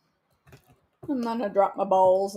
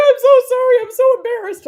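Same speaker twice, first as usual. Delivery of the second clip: imitating the doctor; 13 semitones higher, 10 dB louder than usual. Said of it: "She's like".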